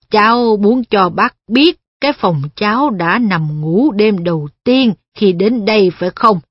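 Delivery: put-on a puzzled blind old man. Wolfram asks Perrin.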